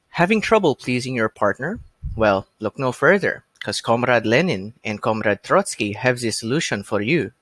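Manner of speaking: stereotypical Russian ad pitchman; cheesy Russian accent. Acted. Podcaster recalls his friend's joke book advertisement, cheesy Russian accent. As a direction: sell it in a hammy Russian accent. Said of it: "cheesy, almost stereotypical Russian accent".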